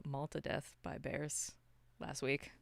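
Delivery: ordinary talk, nothing marked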